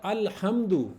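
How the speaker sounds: अल्हम्दु with a clearly sounded L; lam pronounced. Shown as a demonstration. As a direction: sound the L before हम्दु in अल्हम्दु. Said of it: "उसमें देखिए लाम pronounce हो रहा है ना". (अल्हम्दु में लाम साफ़)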